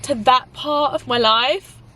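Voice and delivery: tearful. Real, not acted. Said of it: "I don't wanna cry".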